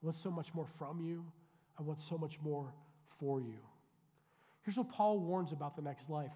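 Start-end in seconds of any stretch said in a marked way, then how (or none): 0.0-3.6 a hushed, pleading voice of God, noticeably softer; voicing God softly. Pastor voicing God quietly to a complacent church, soft and yearning. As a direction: lean in low and longing, wanting more from them. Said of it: "And he's saying".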